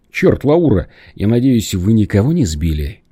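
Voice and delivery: blurted out in alarm; вырвалось. Acted. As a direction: blurt it out in shock. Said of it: "вырвалось у Саши". (испуганно выпалив)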